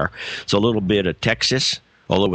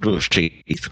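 slow Texan executive talking through his teeth; Texas talk through teeth; 4 semitones lower, slower than usual. Retold or imitated. Recalling a Texas CEO he met, imitating his through-the-teeth talk. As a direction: imitate a Texan boss, teeth together, drawn out. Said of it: "they'll talk through their teeth like this".

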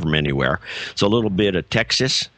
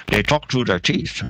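slow Texas executive mumble through the teeth; Texas talk through teeth; slower than usual. Shown as a demonstration. Showing a host how Dallas executives talk, Texan through the teeth. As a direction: draw it out slowly, Texan, teeth held together. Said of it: "if you get that, that kind of sound".

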